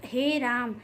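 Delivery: "हे राम" with the vowels stretched long; drawn-out vowel. Shown as a demonstration. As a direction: drag out "राम" like a sigh of appeal. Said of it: "ज़्यादा खींच के बोला जाता है".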